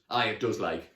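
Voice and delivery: loud-ish, casual Geordie; thick Geordie accent. Acted. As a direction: agree in broad Geordie. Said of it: "in a thick Geordie accent".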